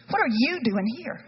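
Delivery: a slightly pressing, direct reading; firmer take. Shown as a demonstration. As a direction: ask it straight and firm. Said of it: "I do wonder what the inflection was".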